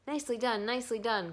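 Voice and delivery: high, loud goose cheer; crying goose. A narrator's reading. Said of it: "cried the goose".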